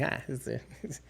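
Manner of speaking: slow Midwestern drawl; drawn out Midwestern accent. Retold or imitated. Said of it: "Midwestern accent comes in".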